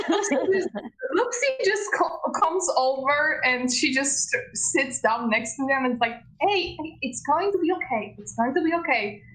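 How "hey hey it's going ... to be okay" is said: gently voiced motherly comfort, a bit higher; motherly reassurance. Lucy sitting down to comfort a nervous friend, motherly reassurance. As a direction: soothe a worried friend like a mother. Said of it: "this really motherly, uh, vibe".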